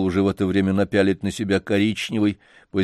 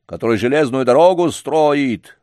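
louder, firm rebuke; old man scolding the janitor's master; raised voice; 4 semitones higher, 5 dB louder than usual. Acted. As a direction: raise your voice at him. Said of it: "возвысил голос дедушка".

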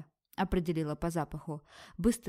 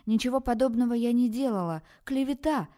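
high, loud, indignant protest; indignant denial; 6 semitones higher, 6 dB louder than usual. Acted. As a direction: deny it, outraged. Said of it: "возмущённо проговорила Вера".

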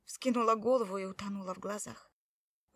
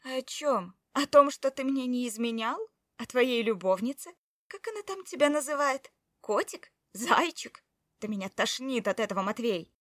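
higher, louder, mocking; sarcastic fury; 4 semitones higher, 7 dB louder than usual. Wife mocking her husband's lover, higher and scornful. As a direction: spit the pet names with scorn.

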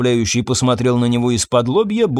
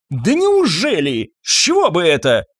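sarcastic retort; 5 semitones higher than usual. Acted.

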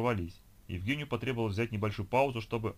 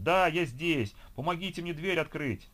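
loud, higher shout for help; eager shouting; 7 semitones higher, 3 dB louder, slower than usual. A narrator's reading. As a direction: yell through the door with renewed strength. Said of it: "продолжив кричать с удвоенным рвением". (громкий крик о помощи, выше обычного)

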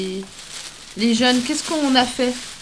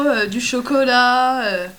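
mouth full; 4 dB louder, slower than usual. Real, not acted. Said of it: "on peut pas parler la bouche pleine".

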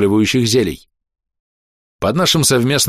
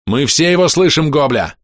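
raised, higher-pitched call; shouted reply; 4 semitones higher than usual. Acted. Companion answers the goblin over the wail, calling out. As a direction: call back over the din.

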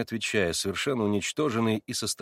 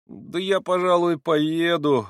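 plaintive, higher and a bit louder; жалобно; 7 semitones higher, 5 dB louder, slower than usual. A narrator's reading. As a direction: whine it like a hurt boy. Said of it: "жалобно отвечал Алёша". (жалобно, просительно)

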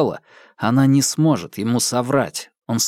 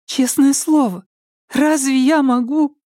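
put-on high, earnest little-girl plea; childish plea; 13 semitones higher than usual. A narrator's reading. Alka swears honesty to her captor, high and childlike. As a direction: plead innocence like a child. Frightened girl pleads innocence.

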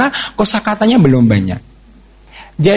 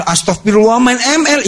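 shocked mother; 6 semitones higher than usual. Retold or imitated.

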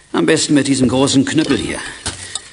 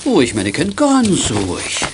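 soothing; 3 semitones higher, slower than usual. Acted. Calming a child.

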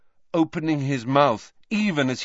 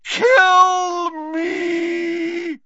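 high, loud, crying shout; yelling; 6 dB louder than usual. Acted. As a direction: yell it in agony. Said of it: "he yelled".

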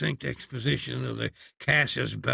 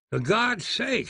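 high exasperated outburst; exploding; 9 semitones higher than usual. Acted. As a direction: finally lose patience. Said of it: "he exploded at length".

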